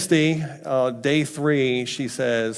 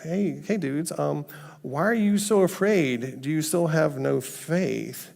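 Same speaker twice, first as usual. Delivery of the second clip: higher-pitched, puzzled gentle reproof; gentle questioning; 5 semitones higher than usual. Retold or imitated. Jesus gently questioning afraid disciples.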